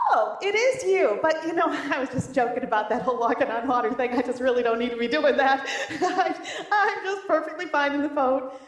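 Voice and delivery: chuckling through a backing-out excuse; half-laughing reluctant Peter; laughing mock excuse. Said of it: "Or he could have said".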